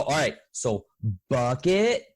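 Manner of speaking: put-on lightly patient, spelled out for a child; as to small child. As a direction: check each word as if with a five-year-old. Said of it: "it's like speaking to a five-year-old".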